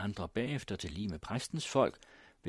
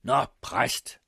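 loud, raised challenge; Morten Bruus; 4 semitones higher, 8 dB louder than usual. A narrator's reading. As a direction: call the pastor out sharply. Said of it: "råbte Morten Bruus".

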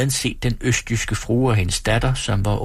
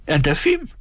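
higher, fretful fussing voice; a flustered landlady wailing at the pot; flustered hostess; 7 semitones higher than usual. Acted. Frantic hostess fussing at the stove that won't boil. Fretting hostess asks the time.

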